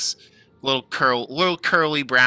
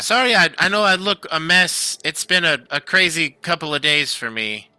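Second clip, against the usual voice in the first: lightly raised halfling voice, chatty; proud halfling craftsman; 5 semitones higher than usual. Acted. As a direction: talk shop with a fan. Keegan apologizes.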